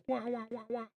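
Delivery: high, soft little wah sounds; playful "wah" noises. Pretend. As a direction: toss out small high wahs. Imitated noise while placing sunlight.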